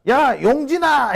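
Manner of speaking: high, slow call across the phone; friend calling out. Retold or imitated. Old school friend on the phone, calling out loudly. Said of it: "이러면서".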